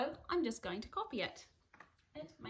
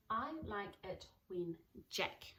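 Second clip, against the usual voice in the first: slow dictation; 3 dB quieter, slower than usual. Shown as a demonstration. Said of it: "I've been practicing Jack".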